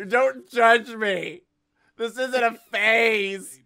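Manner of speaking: put-on high, slow whiny teen plea; mock emo teen. Goth teen insisting to her dad, whiny. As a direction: drag it out like a sulky kid.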